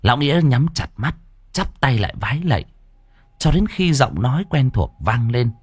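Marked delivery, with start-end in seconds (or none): none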